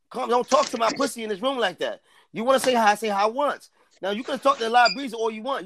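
scolding. Real, not acted. Telling someone off in the room.

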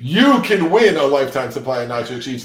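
punchy radio contest plug, opening loud; hammed-up giveaway announcement; mock promo announcer. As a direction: sell it like a prize announcer. Mock prize promo for the podcast.

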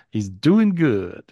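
slow, lightly voiced old man's slang; great-grandfather's slang. Psychic relays a great-grandfather's message in his slow slang. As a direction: drawl it out easy like the old man would. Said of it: "that's how he says it".

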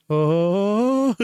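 high drawn-out "oh" climbing upward; long, high mock cry of dismay; imitated wail. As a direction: mimic a distant friend's worried cry. Imitates lost friend's cry.

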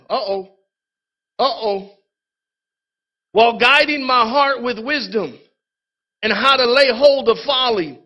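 preacher reading the Bible aloud; scripture reading. Acted.

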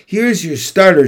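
high, loud, bright waitress chirp; chirpy. A narrator's reading. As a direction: chirp it cheerfully. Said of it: "she chirps".

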